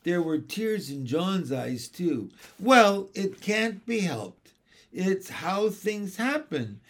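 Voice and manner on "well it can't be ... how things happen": raised, matter-of-fact delivery; brisk no-nonsense acceptance; sensible. A narrator's reading. Nanny to weeping twins, sensibly. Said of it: "said Mary Poppins sensibly".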